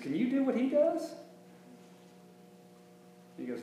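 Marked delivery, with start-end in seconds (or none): 0.0-1.1 Don's pointed question. Retold or imitated. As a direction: toss it up high like Don calling Roger out. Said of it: "Don just looks at him and he goes".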